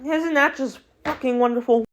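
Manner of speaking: sarcastic. Real, not acted. Sarcastic opener about the roster.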